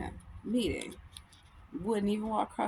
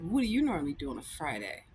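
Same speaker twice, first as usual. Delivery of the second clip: low retold imitation of the driver; creepy Uber driver; 7 semitones lower than usual. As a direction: imitate a nosy driver, pitched down. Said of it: "He's fucking creepy".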